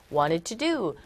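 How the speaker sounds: "wanted to do" as "waned tu du", T dropped after N; softened T in wanted. Shown as a demonstration. Teacher contrasts the reduced form for the class. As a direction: run "wanted to do" together, no hard T. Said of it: "T음이 굉장히 약화되어져서".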